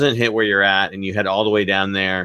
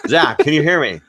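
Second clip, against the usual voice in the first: anchor calling out; 4 semitones higher than usual. Pretend. Anchor calling reporter in storm.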